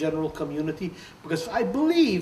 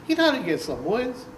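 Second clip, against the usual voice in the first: higher, much louder on the punchline, laughing; George's pidgin verdict; 9 semitones higher, 14 dB louder than usual. Retold or imitated. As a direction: deliver the joke loudly. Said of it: "So he tells me".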